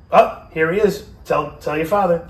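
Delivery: high, loud, urgent mother voice; mother's loud announcement. Retold or imitated. Mother announces news to father.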